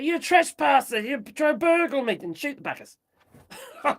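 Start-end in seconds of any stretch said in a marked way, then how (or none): 0.0-2.2 louder, higher mock confrontation. Telling viewers what to say at the door, raised confrontation. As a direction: play the homeowner facing intruders. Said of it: "Just say, just say".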